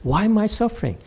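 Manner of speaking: a touch of self-pitying parody; mock whining. Master mimics a student whining, mild mock whine. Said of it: "you keep on whining and say".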